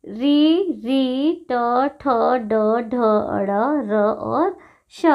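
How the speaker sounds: "री, री, ट, ठ, ड, ढ, अड़, र और श" sounded one by one from the roof of the mouth; retroflex articulation. Shown as a demonstration. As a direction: demonstrate "ट, ठ, ड, ढ" with tongue curled up, each separate. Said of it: "मूर्धा से उच्चारण होने वाले".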